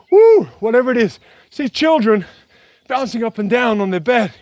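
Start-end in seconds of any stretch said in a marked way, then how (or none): 0.1-1.2 whoop. Shown as a demonstration. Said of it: "to yell, to kinda".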